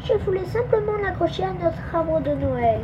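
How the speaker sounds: pleading. A narrator's reading. Nina explains herself to the magpie, pleading. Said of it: "implora Nina".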